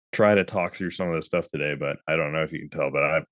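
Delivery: sick-sounding voice with a cold. Real, not acted. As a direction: talk through being sick. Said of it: "I'm pretty sick".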